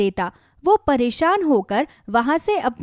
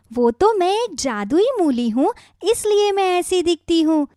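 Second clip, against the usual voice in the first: lightly raised, kindly magic radish voice; a gentle talking radish giving advice; 3 semitones higher than usual. Acted. Magic radish gently advising worried farmer Kishan, kindly.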